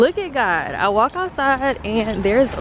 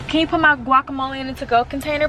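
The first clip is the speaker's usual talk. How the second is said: wrong order; 4 semitones higher, faster than usual. Retold or imitated. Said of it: "No, not, not, not the guacamole".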